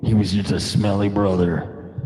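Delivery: low, gravelly wrestler croon, brother; hammy wrestling promo sung as a song; Hulk Hogan style rock song. Pretend. Streamer jokes a wrestler-style song, lightly growled low. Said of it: "This is a song".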